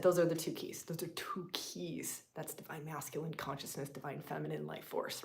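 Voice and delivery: unvoiced, slowing whisper; hushed emphasis on the two keys. Real, not acted. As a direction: lean in and whisper the secret. Hushed repetition of key idea.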